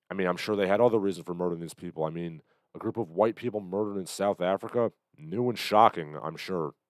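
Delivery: dry sarcasm, mock surprise; sarcastic. Real, not acted. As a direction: feign shock, then drop away on the aside. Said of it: "you can hear the sarcasm just dripping off me".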